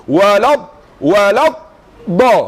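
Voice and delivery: "Walad" cut off, then a separate firm "da"; correct articulation. Shown as a demonstration. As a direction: split "Walad" from "da" with a clear stop. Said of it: "da ni tak kat tadi". (sebut "Walad", henti, kemudian "da")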